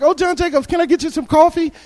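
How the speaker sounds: preacher imitating the greeter offering coffee; sweet grandmother. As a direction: fuss sweetly over the guest. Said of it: "she was so nice".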